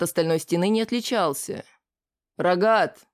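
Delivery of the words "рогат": short sharp call across the room; calling out sharply. Acted. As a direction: bark the name to get attention. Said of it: "крикнул я". (резкий окрик)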